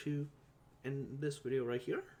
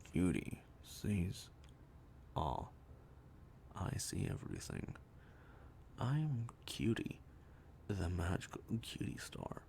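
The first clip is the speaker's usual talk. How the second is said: much lower, slow hammed-up oracle; deep oracle voice; 6 semitones lower, slower than usual. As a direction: growl it low as a mock mystic star. Plays Cutie Star character.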